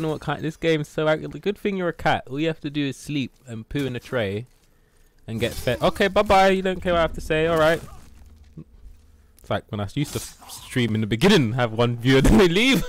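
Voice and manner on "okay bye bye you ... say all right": higher, louder mock hurt farewell; mock huff at cat. Real, not acted. Streamer mock-offended as his cat leaves, higher huffy voice.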